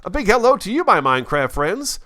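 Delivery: high, loud, beaming intro; channel greeting. Shown as a demonstration. Host opening his video with a loud cheery hello. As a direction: greet the viewers with a big burst of energy. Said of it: "when I do my first little hop and say".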